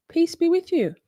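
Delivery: lightly hammed-up priest, high; mock priest intoning. Streamer playing priest to Catholic viewers, light hammed-up intoning. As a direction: intone like mass. Church liturgy quote.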